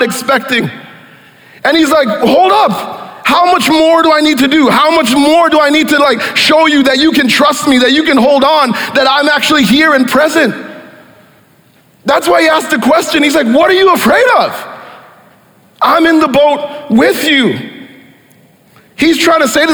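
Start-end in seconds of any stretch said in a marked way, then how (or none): 2.1-10.5 higher, pleading, almost shouting; Jesus worn out by doubting disciples, voice raised; exasperated Jesus. Acted. 13.5-17.6 high, quick, disbelieving question; Jesus in the boat, amazed at their fear; incredulous Jesus. Acted. Jesus voiced asking disciples.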